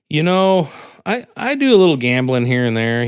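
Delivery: lightly voiced old gambler; a hint of a cheerful old man. Old guy voiced in joke.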